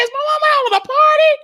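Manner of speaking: fast whispered question. Retold or imitated. Kid wondering about noise at night, whispered. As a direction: whisper it like a kid sneaking downstairs.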